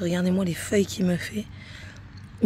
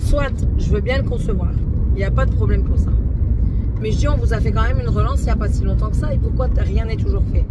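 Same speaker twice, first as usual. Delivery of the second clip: louder, heated complaint; angry retelling; 2 semitones higher, 5 dB louder than usual. Retold or imitated. Retelling her angry call to the bank, heated and loud. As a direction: vent it like the call still stings. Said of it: "Je me suis énervée".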